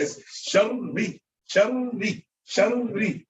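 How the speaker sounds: shuddery with the middle R held long; correct doubled R. Shown as a demonstration. Teacher modelling the right shuddery, long R. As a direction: hold the R in shuddery before the ee. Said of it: "it's not like that".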